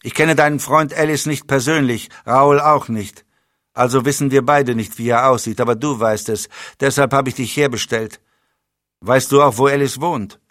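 briefing with cold authority; dry commanding spymaster. Acted. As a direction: spymaster lays out the disaster to his agent. Leblanc's held voice.

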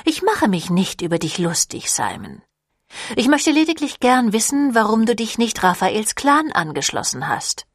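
a hint of a poised vampire woman, pitch lifting; lightly voiced vampire leader. Camille questions Simon about Raphael's clan, lightly voiced vampire leader.

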